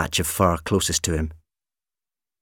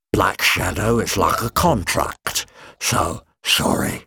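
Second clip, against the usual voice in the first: slow monster voice; slower than usual. Acted. Monster explains slowly.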